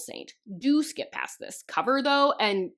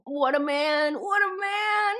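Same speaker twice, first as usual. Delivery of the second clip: sarcastic; 4 semitones higher, slower than usual. Acted. Sarcastic mockery of the hero.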